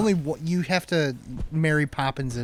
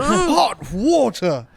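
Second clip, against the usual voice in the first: laughing exclaim; 10 semitones higher, 8 dB louder, much slower than usual. Real, not acted. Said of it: "Could I have some more hot water".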